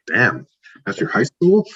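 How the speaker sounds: awed visitor; amazed. Retold or imitated. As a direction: marvel at the stadium. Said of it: "it's like".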